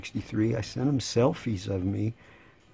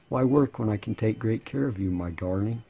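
sarcastic. Real, not acted. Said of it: "I said in sarcasm".

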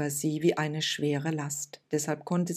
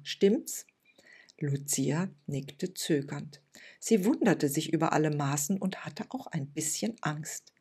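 put-on warm old woman; 3 semitones higher than usual. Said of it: "mit einer tiefen und warmen Stimme".

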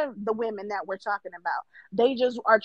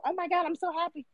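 mock gushing; 6 semitones higher, 6 dB quieter, faster than usual. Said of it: "I never go on anybody's platform and go".

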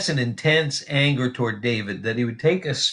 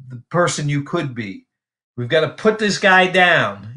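voicing Saul; 3 semitones higher than usual. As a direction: coax the son like a cold father. Preacher voicing Saul to Jonathan.

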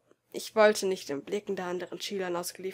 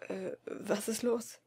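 slow, soft and fearful; anxious question; 7 dB quieter, slower than usual. A narrator's reading. Boy sensing bad news, anxiously asking. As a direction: ask afraid of the answer. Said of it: "fragte ich ängstlich".

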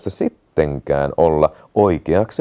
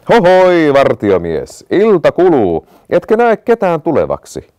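high, louder impatient calling; impatient shout; 7 semitones higher, 6 dB louder than usual. A narrator's reading. The prince shouts up to the watchman, impatient and loud. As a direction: call up to the tower, impatient. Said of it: "kärsimättömänä huusi".

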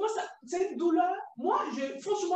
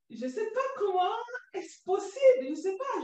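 words breaking into tears, pitched up; real crying; 5 semitones higher than usual. Real, not acted. Survivor recalling her excision, voice breaking into sobs. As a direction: cry through the words, overwhelmed.

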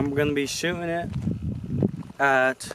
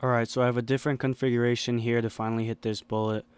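quiet; 4 semitones lower, 8 dB quieter, faster than usual. Real, not acted. Quiet confession after missing.

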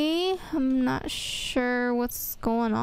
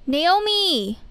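calling out; 4 semitones higher than usual. Acted. Calling out to friend.

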